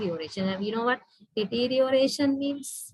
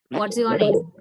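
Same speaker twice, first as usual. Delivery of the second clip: louder, with the voice going down on "name"; falling intonation; 5 dB louder than usual. Shown as a demonstration. Teacher repeating an example question for students, falling intonation. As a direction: bring "name" down at the question's end. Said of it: "my voice level goes down".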